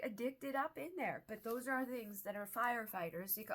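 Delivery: ordinary talk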